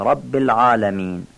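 العالمین with a thick, throaty Arabic ayn. Shown as a demonstration. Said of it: "عین عالمین هم باید غلیظ و عربی بگیم".

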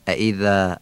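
ائذا ending in a long light "æ"; thin alef. Shown as a demonstration. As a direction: keep the final alef of ائذا front and thin. (ائذا با الفِ نازک، اَی کشیده)

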